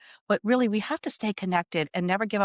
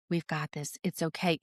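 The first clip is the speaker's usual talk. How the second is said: much softer, gently reassuring; little inner voice; 3 semitones lower, 6 dB quieter than usual. Retold or imitated. Her intuition reassuring her through panic, soft and hushed. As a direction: hush it like a comforting inner voice. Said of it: "that little voice that was like".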